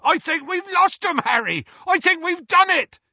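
high, loud triumphant yell; elated shout over the engine. A narrator's reading. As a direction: holler the good news as Hagrid. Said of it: "yelled Hagrid".

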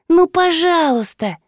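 high, drawn-out whine; нытьё. A narrator's reading. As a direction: plead in a whiny high voice. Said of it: "заныла Мариша". (жалобно ноя, протяжно)

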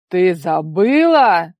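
loud, slow booming disbelief; thunderous father. A narrator's reading. Father repeating her excuse, booming slowly in outrage. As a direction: roar it back at her in outrage. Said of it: "закрохотал держатель".

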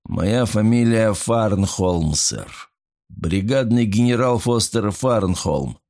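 slow, grand self-announcement; pompous drunk. Acted. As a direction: announce yourself like a tipsy general. Pompous drunk introduces himself.

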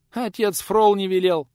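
high, loud, slow alarmed protest; frightened old woman. A narrator's reading. Old woman answers the visitor in fright, high protest. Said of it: "испуганно замотала головой старуха".

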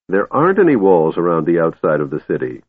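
"any" leaned on with victory; triumphantly. Acted. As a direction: stress on any, gloating. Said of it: "Tass said triumphantly".

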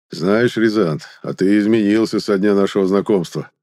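tipsy, slightly slurred speech; a little drunk, tongue stumbling. Acted. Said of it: "немного заплетающимся языком".

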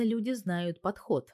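plain reading voice

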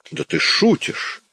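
mocking disbelief, drawn out; scornful cry. A narrator's reading. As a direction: throw it back as an absurd joke. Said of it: "крикнул Жавер".

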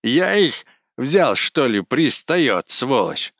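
angry yelling. A narrator's reading. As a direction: hurl the insult in a rage. Кузьма yelling, quarreling.

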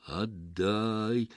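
«Отдай» drawn out, eerie but distinct; clear demand, little howl. Acted. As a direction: demand it plainly, barely wailing. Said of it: "внятно и почти без подвывания потребовал голос".

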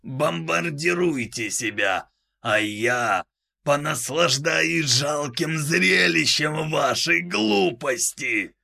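high, slow devilish gloating; demonic layered voice. Acted. Demon voice continues.

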